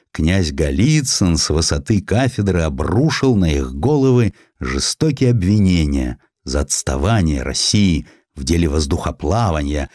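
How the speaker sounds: usual speaking voice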